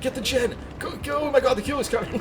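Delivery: loud, high, frantic gamer yelling; panic-shout at a teammate, hammed up; mock stressing. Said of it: "I'm gonna be stressing you".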